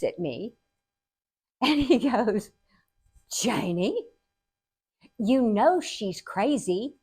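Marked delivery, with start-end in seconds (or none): 3.3-6.9 slow, measured dad delivery, lightly voiced; understated imitation of an unfazed father; matter-of-fact dad. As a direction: state it simply, with long pauses. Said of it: "my dad was just so funny and so matter of fact".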